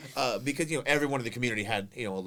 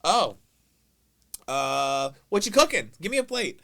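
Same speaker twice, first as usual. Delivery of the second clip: loud oblivious brother; 4 semitones higher, 5 dB louder than usual. Retold or imitated.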